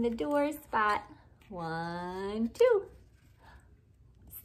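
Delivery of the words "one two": excited count. Acted. Counting before opening.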